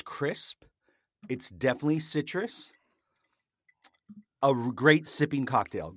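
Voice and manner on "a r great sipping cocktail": his show tagline, savoured with a satisfied fall; signature catchphrase. Shown as a demonstration. Host to his viewer, declaring his catchphrase. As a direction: deliver the tagline like a verdict. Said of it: "Great sipping cocktail is what I say here".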